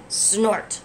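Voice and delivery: a voiced snort, like a big machine. The big digger answering the bird, a snort. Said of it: "the big thing just said".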